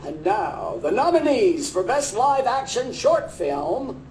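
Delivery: big booming awards-show announcer. Shown as a demonstration. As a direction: announce it like a grand emcee. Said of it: "I think they like my announcer voice".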